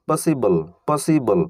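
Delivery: slow model word. Shown as a demonstration. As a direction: drag out পসিবল twice like a teacher. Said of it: "ইবলের মতো sound পাচ্ছি". (ধীরে ধীরে পসিবল)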